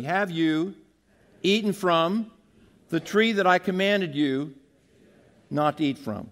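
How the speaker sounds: each phrase said with a pause for the crowd to repeat; preacher leads the church phrase by phrase, with a pause after each; slow call and response. Shown as a demonstration. Preacher has the congregation repeat each phrase of the verse. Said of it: "Say it with me".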